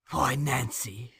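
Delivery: slow, soothing coax; calm her down gently. Acted. Fagin soothing the raging Nancy, slow and gentle. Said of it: "in a soothing tone".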